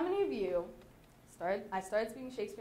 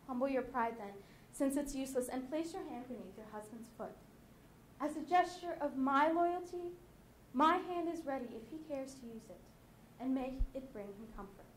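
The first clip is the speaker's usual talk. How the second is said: submissive. Acted. Wife offering her hand to her husband, submissive. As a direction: settle down into humble submission. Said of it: "sounds like she is submitting to her husband".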